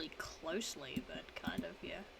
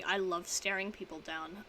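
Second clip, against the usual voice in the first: ordinary delivery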